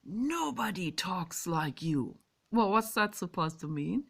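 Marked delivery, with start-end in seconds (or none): 0.0-2.2 slow, drawn-out mocking quote; imitated critic. Quoting a guy who criticised her speech, lightly mimicked. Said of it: "like that guy says".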